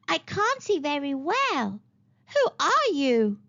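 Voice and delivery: lightly voiced old witch; a hint of a half-blind crone. The old woman peers at the children at her door, lightly croaky.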